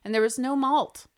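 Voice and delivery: a hint of a fussy grandma; old lady voice. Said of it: "This is my old lady voice".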